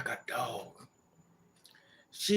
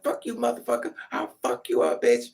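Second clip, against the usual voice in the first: aunt cursing; 4 semitones lower than usual. Retold or imitated. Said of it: "She's like".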